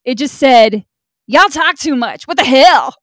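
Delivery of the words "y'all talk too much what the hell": loud, raised-pitch outraged complaint; mock-indignant reviewer. Host reads out the first negative review, mock outrage. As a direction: imitate a fed-up critic.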